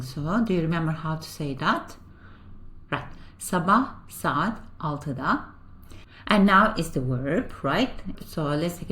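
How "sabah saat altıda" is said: slow model pronunciation. Shown as a demonstration. Teacher gives answer slowly.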